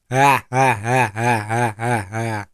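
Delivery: spoken, evenly spaced ha-ha-ha, falling away; mock devil laugh. All the devils laugh at their victims, mock laughter. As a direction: fake a devils' laugh, syllable by syllable. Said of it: "Semua iblis ketawa".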